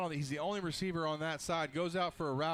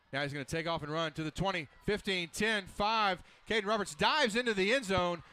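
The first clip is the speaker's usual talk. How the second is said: rising excited play-by-play call; touchdown call; 4 semitones higher, 4 dB louder than usual. Real, not acted. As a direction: build up to a shouted touchdown. Touchdown run called live.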